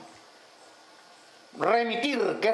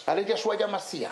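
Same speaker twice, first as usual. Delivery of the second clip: mocking imitation, faster; 2 semitones lower, faster than usual. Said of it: "ese Jesús es un nombre pagano".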